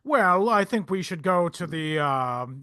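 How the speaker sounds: lightly voiced Boston Brahmin; a hint of upper-class Boston accent; old money Boston accent. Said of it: "he's like a Boston Brahmin voice".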